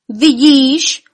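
high, loud shouted question; shouting at her. A narrator's reading. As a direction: yell it across to her. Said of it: "křičel na ní Lumír".

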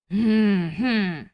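mild grumbling hm-hm; judge's grumbled hmm; grumbling hum. A narrator's reading. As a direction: hum doubtfully to yourself. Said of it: "zabručel doktor Korpus".

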